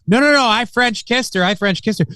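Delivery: imitating a cocky young actor defending himself; flippant bragging. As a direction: brag it off like it's nothing. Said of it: "flippantly is just sitting there defending".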